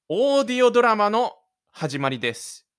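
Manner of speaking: loud, high grand announcement; excited announcement. Acted. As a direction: announce the show like a host. Announcing the audio drama start.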